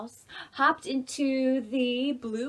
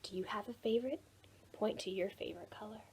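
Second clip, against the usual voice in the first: whisper; 8 dB quieter, faster than usual. Acted. Teacher hushed to kids.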